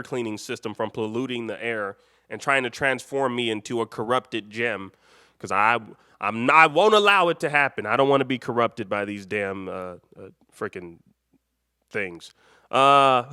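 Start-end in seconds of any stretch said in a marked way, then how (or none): none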